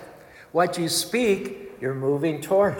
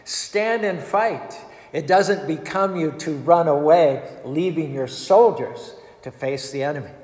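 shouting. Acted. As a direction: call out a challenge to fight. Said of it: "Arjuna shouted".

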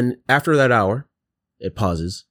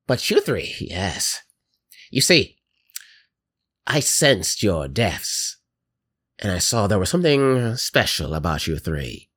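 put-on slow, sweet old lady menace; creepy grandma voice; 2 semitones lower than usual. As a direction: savour every word like a granny. Grandma creature monologue.

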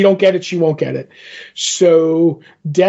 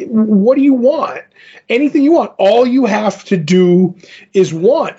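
tempting offer; 4 semitones higher than usual. Retold or imitated. Tempter voiced making an offer.

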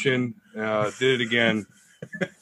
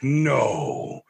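long, drawn-out no; disbelieving wife; 3 semitones higher than usual. Retold or imitated. Wife answering as they watch, mock disbelief. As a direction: imitate a wife's stretched-out disbelief. Voices wife's disbelief at the reveal.

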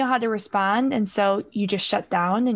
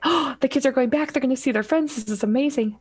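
excited; 4 semitones higher, faster than usual. Acted. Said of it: "you're excited".

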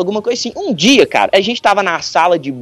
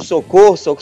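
mild mock yell. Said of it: "Eu comecei a gritar".

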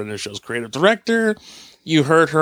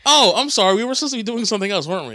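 mock sheepish; 6 semitones higher than usual. Mock-sheepish restart of the show intro.

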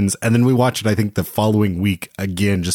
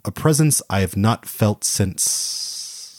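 mystical voice fading into silence; trailing off; much slower than usual. Pretend. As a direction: sense a presence, then drift off. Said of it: "you kinda just trailed off back there".

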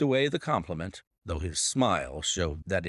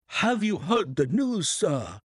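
high, gasping alarmed servant; panicked butler blurting it out; breathless butler; 10 semitones higher than usual. Acted. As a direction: burst in with the news, out of breath. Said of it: "he gasped".

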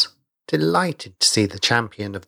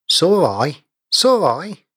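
sharp, rising retort, louder and higher; 6 semitones higher, 3 dB louder, slower than usual. A narrator's reading. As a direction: fire the question back at him, offended. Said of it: "retorted Lap".

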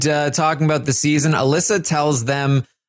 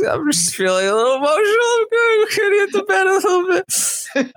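much higher, fast, cracking near-tears voice; teary squeak. Retold or imitated. Alyssa, on the verge of tears, excusing herself to bed, high and cracking. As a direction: let the voice climb and crack as she fights tears.

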